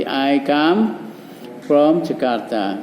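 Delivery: slow, spelled-out model answer; slow model sentence. Shown as a demonstration. Teacher modelling the answer slowly for pupils. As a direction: lay out each word slowly for the class. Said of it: "Ayo, sama dengan ini ngomongnya".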